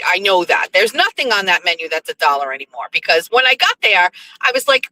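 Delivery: ordinary delivery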